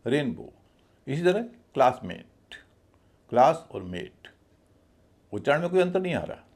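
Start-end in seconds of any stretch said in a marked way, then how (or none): 0.1-0.5 रेन stressed, बो lighter and falling. Shown as a demonstration. Teacher showing learners how stress changes pronunciation, stress on रेन in रेनबो. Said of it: "रेन पे मेरा ज़्यादा stress है". 1.7-2.6 क्लास drawn out and stressed, मेट lighter. Shown as a demonstration. Teacher giving the next noun example, stress on क्लास. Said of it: "क्लास पे जितना जोर है".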